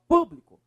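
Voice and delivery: público with the weight on PÚ; stressed PÚ syllable. Shown as a demonstration. Teacher answering which syllable is strongest, stress on PÚ in público. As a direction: lean on the PÚ in público. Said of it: "Qual a sílaba mais forte?".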